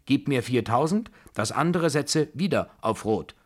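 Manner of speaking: high, loud, brisk-tempered orders; forceful, excited command. A narrator's reading. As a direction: take charge like an imperious old lady. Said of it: "kommandierte die Babuschka".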